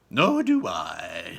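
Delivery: slow lightly voiced Wonka; Wonka agreeing. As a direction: agree gravely.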